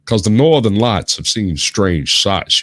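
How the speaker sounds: slow, grand recitation; dramatic poem reading. Shown as a demonstration. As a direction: recite it like a ballad. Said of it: "Which actually has done pretty well".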